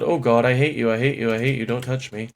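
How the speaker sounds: panicked loud yelling at a monster; angry crying. Real, not acted. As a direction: shout in terrified disgust. Monster attacks in horror game.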